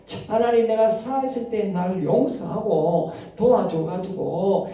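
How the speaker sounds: a preacher voicing David's plea to God; pleading prayer. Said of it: "이렇게 기도하는 거예요".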